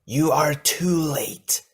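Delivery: slow, high, drawn-out monster howl; howling creature. A narrator's reading. Captive queen taunts the arriving Toa, howling. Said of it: "Kadak howled".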